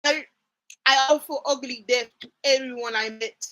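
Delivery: lightly faked Irish accent; Angel's Irish accent. Shown as a demonstration. Reading an Angel line aloud, badly faked Irish accent. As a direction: try a rough, mock Irish accent. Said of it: "let me go find an an-, a angel line".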